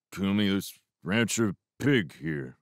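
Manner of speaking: ordinary delivery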